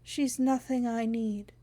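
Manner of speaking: lightly voiced thin, dry woman; dry papery voice. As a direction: rasp it dry like old paper. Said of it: "the dry and papery voice".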